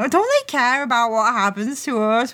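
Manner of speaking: mild mock whining; little whine. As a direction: lightly imitate a whiny complaint. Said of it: "Bright has a little whine".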